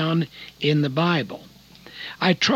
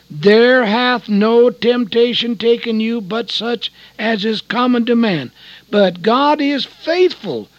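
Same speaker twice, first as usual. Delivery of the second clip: fervent recitation; 3 semitones higher, 5 dB louder than usual. Acted. The preacher shouts the verse he remembered in his craving, fervent. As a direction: proclaim the verse with rising fervour then let it fall away. Scripture recalled in crisis.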